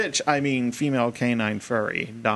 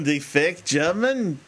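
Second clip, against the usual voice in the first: mock German accent, drawn out; fake German accent; 3 semitones higher, slower than usual. Describing a man's dubious accent, fake German. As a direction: put on a slow fake German. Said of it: "if that was his real accent".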